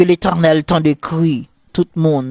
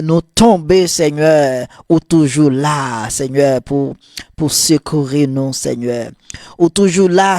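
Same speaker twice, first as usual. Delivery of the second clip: earnest prayer. Real, not acted. Preacher telling the Lord of our troubles, earnest prayer. Recites scripture, then leads prayer.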